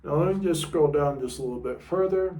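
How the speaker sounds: talking around a guitar pick; words muffled by a pick in mouth. Real, not acted. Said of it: "Sorry for talking with the pick in my mouth".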